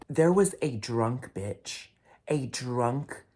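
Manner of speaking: slow, loud furious rant; slow outraged yelling about the crowd. Real, not acted. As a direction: hammer each word out in outrage. Ranting about drunk crowd member.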